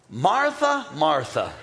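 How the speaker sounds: a mildly stern call of her name; warning call. Retold or imitated. Jesus warning Martha by calling her name twice. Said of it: "When Jesus says your name two times, you're in trouble".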